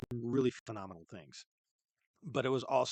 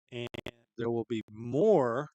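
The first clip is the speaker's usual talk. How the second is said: creepy voice; 4 dB louder, slower than usual. Retold or imitated. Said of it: "I said more in your creepy voice".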